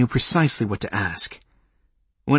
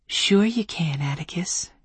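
whispering; 7 semitones higher than usual. Acted. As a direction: breathe it like a secret. Lovers' code in a whisper.

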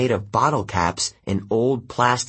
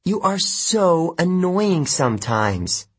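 exasperated sigh; 8 semitones higher, slower than usual. Acted. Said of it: "She sighed".

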